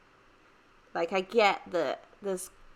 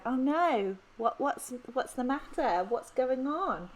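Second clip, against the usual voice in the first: concerned American; 5 semitones higher than usual. Retold or imitated. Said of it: "very concerned people going".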